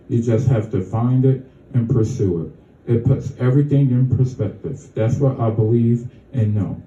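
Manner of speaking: measured poem reading, lines falling at the ends; poem recital. Acted. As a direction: recite your own poem to a small audience. Reads own poem aloud.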